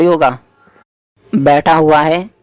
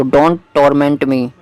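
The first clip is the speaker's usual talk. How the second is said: slow dictation; much slower than usual. Shown as a demonstration. Teacher dictates an English sentence.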